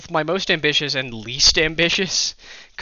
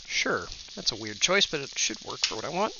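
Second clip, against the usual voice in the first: sniffling; 6 dB quieter than usual. Real, not acted. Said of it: "Sorry about the sniffling".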